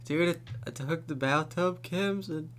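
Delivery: loud, high, panicky retelling of a stoned voicemail; mock a friend yelling about worms on the walls; imitating a tripping friend. Friend imitating his tripping buddy's frantic voicemail, loud and high.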